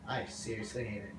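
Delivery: soft whispered grumbling; quiet grumble. Real, not acted. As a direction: grumble under your breath. Muttering after glitch.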